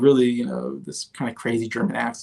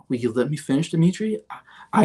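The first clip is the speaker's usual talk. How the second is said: mock president plea; 4 semitones higher than usual. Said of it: "He's like".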